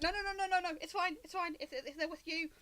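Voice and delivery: flustered backpedalling, eager to let them through; panicking guard. Acted. Guard waving the party through after seeing the crest, panicky. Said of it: "has these guards panicking".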